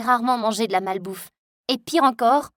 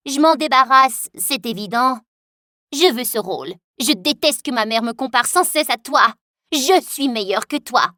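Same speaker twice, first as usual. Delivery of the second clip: louder, sneering and bitter; spiteful rival; 4 dB louder than usual. Acted. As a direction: spit out her jealousy. Jealous rival taunts.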